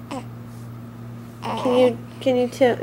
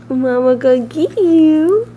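louder playful mock threat; teasing threat; 3 semitones higher, 5 dB louder than usual. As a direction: pretend to pounce on the baby. Playful tickle threat to baby.

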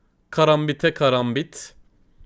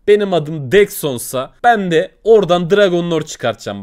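louder, a confident vow to the viewers; loud boast; 3 semitones higher, 6 dB louder than usual. Real, not acted. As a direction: swear it to the chat like a bold promise. (kendinden emin, yüksek sesle verilen söz)

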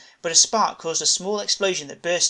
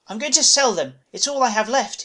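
Seymour's voice; 6 semitones higher, 4 dB louder than usual. A narrator's reading.

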